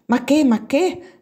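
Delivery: high, drawn-out objection; mild cry of protest. A narrator's reading. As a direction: cry out in protest, high and slow, without real shouting. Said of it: "gridò Anna Doria". (grido di protesta contenuto, acuto)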